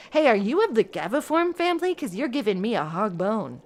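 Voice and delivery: cheesy flirty delivery; pickup line. Pretend. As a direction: play a smooth flirt. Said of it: "that joke had a potency of eight".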